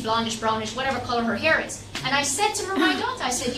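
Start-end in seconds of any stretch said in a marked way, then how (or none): none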